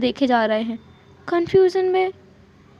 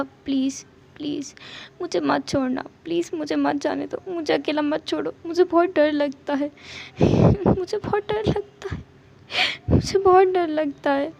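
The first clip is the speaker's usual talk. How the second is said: softer, near tears, a sob breaking in; scared pleading; 3 dB quieter than usual. Acted. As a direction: beg him not to leave. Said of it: "विंग again रोने start करने वाला था". (रोने के करीब डरी हुई विनती)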